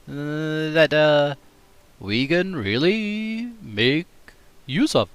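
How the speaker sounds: slow, halting lightly voiced Obama; Obama impression. Shown as a demonstration. Streamer imitates Obama for chat. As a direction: pause like a president at a podium. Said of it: "let me try that one".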